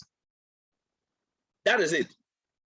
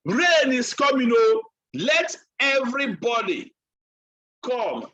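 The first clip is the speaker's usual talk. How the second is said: raised calling voice, retold; Noah shouting a warning; 2 semitones higher, 3 dB louder than usual. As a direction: call everyone in like a town crier. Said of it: "He was shouting".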